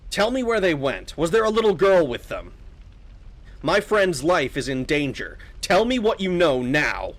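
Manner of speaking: mildly pressing demand for answers; lightly voiced insistent young adventurer; urgent hero. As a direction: plead for a friend in danger.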